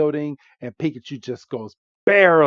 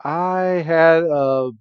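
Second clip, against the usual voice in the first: slow drawn-out Pikachu; 4 semitones higher, 4 dB louder, much slower than usual. Retold or imitated. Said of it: "Pikachu's like".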